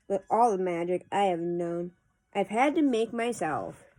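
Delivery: measured, lilting poem reading; poetry recitation. Acted. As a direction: read the verse aloud with pauses at each phrase. Reads a poem aloud.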